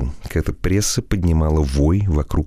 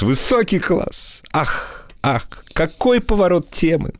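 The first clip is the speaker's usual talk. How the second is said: mild laughing delight; 9 semitones higher, slower than usual. Acted. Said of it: "заливаясь смехом".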